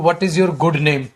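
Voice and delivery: very slowly, each word drawn out; slow quoted question. Retold or imitated. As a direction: spell the phrase out slowly like a quoted mistake. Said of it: "बेटा मैं बोलूं". (धीरे-धीरे खींचकर बोला गया सवाल)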